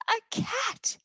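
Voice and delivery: high squeal of alarm; frightened cry. A narrator's reading. Mice spotting a cat, a high frightened cry. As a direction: shriek at the sight of the cat.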